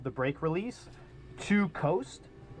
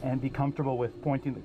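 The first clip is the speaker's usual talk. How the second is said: over the radio. Real, not acted. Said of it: "you can listen in on the radio".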